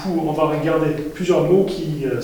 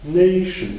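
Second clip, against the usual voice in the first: nation with NA said higher and louder; stress on NA; 5 semitones higher, 4 dB louder than usual. Shown as a demonstration. French teacher demonstrating English word stress to the class, stressing NA. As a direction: hit the first syllable of nation. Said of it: "on va dire".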